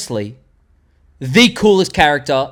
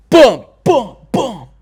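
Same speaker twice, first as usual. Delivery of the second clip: punchy vocal drum hits, pitched up; mock drumroll booms; 8 semitones higher, 6 dB louder, slower than usual. Host builds up to number one, mock drumroll. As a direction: play the fanfare with your mouth, beat by beat.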